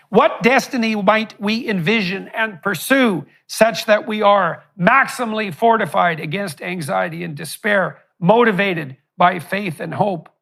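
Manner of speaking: measured public reading of a manifesto; formal speech. Real, not acted. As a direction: deliver a prepared statement with firm emphasis. Reads out prepared question.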